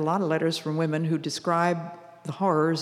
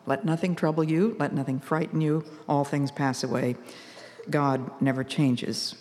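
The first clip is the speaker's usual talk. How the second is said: softer, settled repeat of the poem; calm repeat. Shown as a demonstration. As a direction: say it again softly, to calm your own heart. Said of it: "calms me and helps me to keep a quiet heart".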